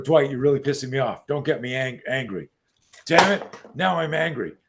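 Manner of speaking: acted irritation building to a mild outburst; mock-angry, rising on the curse; regular anger. Coach demonstrates ordinary anger to the host, mildly angry. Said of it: "that's regular anger".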